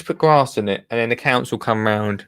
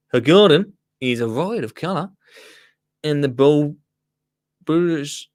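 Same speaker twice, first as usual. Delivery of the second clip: lightly put-on Australian accent. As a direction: read on in a hint of Australian. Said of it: "in my Australian accent".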